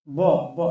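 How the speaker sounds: ব popped out with a short echo; ব struck and released with a bounce; ব with a qalqalah knock; bounced ba. Shown as a demonstration. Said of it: "এমন একটা উচ্চারণ হবে".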